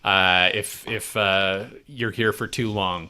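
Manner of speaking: talking over a crunchy snack; crunching chips. Real, not acted. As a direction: crunch pretzels mid-sentence. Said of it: "Sorry about the crunch".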